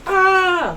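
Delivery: high squealed ah of a scared apple; a high play scream for the class; mock scream. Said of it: "suddenly made some sounds".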